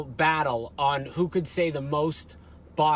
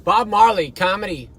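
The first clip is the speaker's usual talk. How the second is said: announcer intro; 5 dB louder than usual. Acted.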